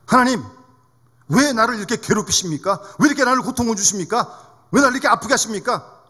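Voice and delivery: mildly angry retold prayer of protest; angry complaint. Grandmother in pain complains to God, with mild anger. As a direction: press each why as an imitated grievance. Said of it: "또 화가 나가지고".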